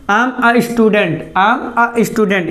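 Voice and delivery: am a student, each word drawn out very slowly; slow dictation. Shown as a demonstration. Teacher models the sentence slowly for the class. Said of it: "इसको ए नहीं पढ़ना है".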